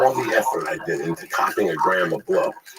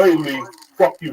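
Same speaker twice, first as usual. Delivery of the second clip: mock angry callout; 8 semitones higher, 6 dB louder than usual. Acted confrontation over owed money.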